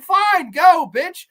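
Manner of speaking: high, loud dismissal; hammed-up kiss-off; mock angry retort. Man sends his girlfriend off in a row, mock-furious and loud. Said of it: "back and forth just with these verbal jabs".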